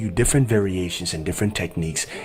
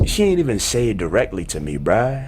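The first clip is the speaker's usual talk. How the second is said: a bit higher, casual gossip tone; hood example sentence; 3 semitones higher than usual. Shown as a demonstration. Teacher acting a gossiping friend in slang. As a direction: complain like telling a friend. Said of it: "this is exactly how it would be used in a sentence".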